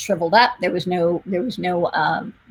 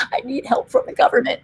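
mock needy plea; 3 semitones higher, faster than usual. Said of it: "social worker thinks".

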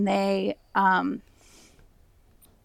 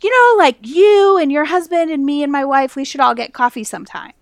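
starts high and loud, eases down; mock a pastor's chummy deflection; imitating evasive pastor; 3 semitones higher, 4 dB louder, faster than usual. Guest retelling pastor dodging her preaching question, imitated breezy deflection. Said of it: "he would be like".

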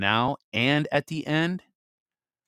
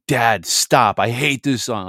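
imitating daughter; 2 semitones higher, 8 dB louder, slower than usual. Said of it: "She was like".

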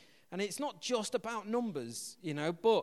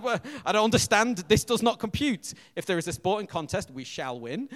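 robotic American; 8 dB louder than usual. Retold or imitated. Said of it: "Like, like".

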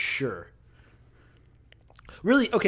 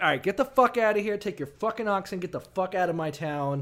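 higher and fast shooing him away; mock pharaoh dismissal; 4 semitones higher, faster than usual. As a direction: hustle him out, pitched up. Pharaoh voiced expelling Abraham.

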